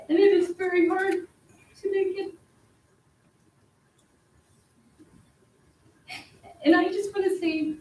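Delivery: straining to hold it together; emotional. Real, not acted. Resident tells council about her husband, near tears. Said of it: "Sorry, I'm gonna be emotional".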